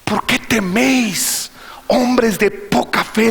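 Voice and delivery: Jesus's rebuke. Acted. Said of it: "le dice Jesús".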